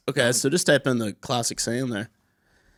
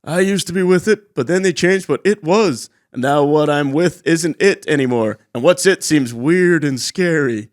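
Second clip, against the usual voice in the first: Grampa Simpson quote; 4 dB louder than usual. Retold or imitated.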